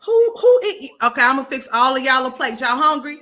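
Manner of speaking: high, loud laughing mock offer; mock the meal while laughing; high loud mock hostess offer; laughing mockery. Real, not acted. Mocking serving the meal.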